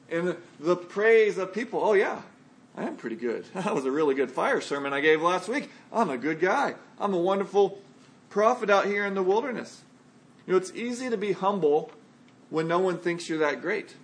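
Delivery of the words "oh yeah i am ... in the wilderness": imagined smug boast with big rises and dips; mock self-satisfaction. Preacher imagines John tempted by praise, mock self-satisfied. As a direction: play at basking in praise, pitch swooping. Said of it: "imagine his temptation to bask".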